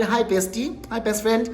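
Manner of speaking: sweet fake greeting. Wife calling the best friend, sugary and quick. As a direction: put on a sweet phone greeting.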